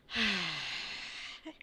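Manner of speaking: long, soft exhale of defeat; weary sigh. Acted. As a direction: sigh like a worn-out student. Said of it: "other students are just like".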